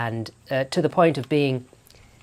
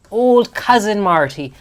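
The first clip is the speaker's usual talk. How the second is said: mock grand; 8 semitones higher, 11 dB louder than usual. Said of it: "ironic punchline about Martin Short".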